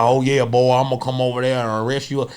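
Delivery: imitated Southern accent, lightly put on. Comic mimicking a film cop to the audience, Southern accent. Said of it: "He had that Southern accent".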